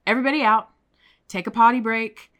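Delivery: director's wake-up call; boss calling out. Retold or imitated. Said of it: "wakes everybody up and says".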